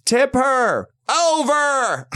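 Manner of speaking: high, slow mocking bark; mean host yell. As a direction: belt it out like a mean old-school host. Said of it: "He's like, he goes".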